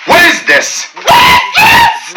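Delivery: rising outraged yell; incredulous shout. Shown as a demonstration. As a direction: shout it in disbelief. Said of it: "repeated, rising to a shout".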